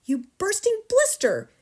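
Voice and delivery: high, loud burst of abuse; furious yell. A narrator's reading. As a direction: explode at the pupil. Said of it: "yelled the Trunchbull".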